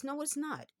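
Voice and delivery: a sharp high no, firmly rejecting it; indignant denial. Real, not acted. Answering critics who call her racist, indignant and high. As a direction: shoot the claim down on the spot.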